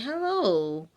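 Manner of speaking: high drawn-out hello; mama greeting. Retold or imitated. Mama meeting the partner, high drawn-out hello.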